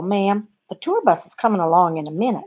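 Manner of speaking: light Southern bus driver's drawl; a hint of a lovely Southern drawl. Bus driver telling a passenger about the tour bus, light Southern drawl. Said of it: "in that lovely Southern drawl".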